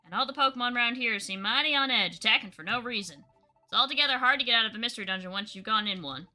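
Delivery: easygoing Southern guide explaining; Southern Nuzleaf voice; Southern accent. Acted. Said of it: "He really is Southern".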